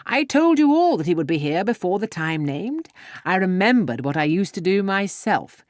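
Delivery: loud, gleeful boasting; exultant. A narrator's reading. Mr Weston boasting to the room, gleeful and loud. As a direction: keep crowing with delight. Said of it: "cried Mister Weston with exultation".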